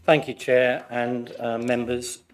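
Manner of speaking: hoarse, croaky from flu. Real, not acted. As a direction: speak through a sore, croaky throat. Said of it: "Please excuse my croaky voice".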